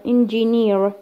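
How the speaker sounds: "engineer" with weight on the final NEER; stress on last syllable. Shown as a demonstration. Teacher demonstrating suffix stress to students, stress on the end of "engineer". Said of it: "last syllable".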